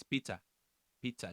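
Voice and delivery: "pita" with an audible T; "pita" repeated with its T intact; T kept. Shown as a demonstration. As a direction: sound the T in "Pita", PEE-tah. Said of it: "There's a T in there".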